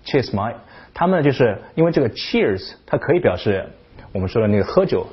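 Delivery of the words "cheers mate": Cheers mate run together, mate said "mite" with no t; quick London Cheers mate; Cockney Cheers mate. Shown as a demonstration. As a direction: slur Cheers mate, drop the t. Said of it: "你就听不出那个mate，那个t".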